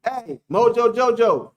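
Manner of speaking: mock-confident boasting; delusional fan mode. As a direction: crow like a deluded die-hard fan. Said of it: "I have a delusional mode".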